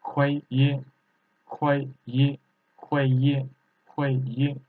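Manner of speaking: "Hui yi" with both syllables in fourth tone; two fourth tones on "Hui yi", repeated evenly. Shown as a demonstration. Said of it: "both of them fourth tone".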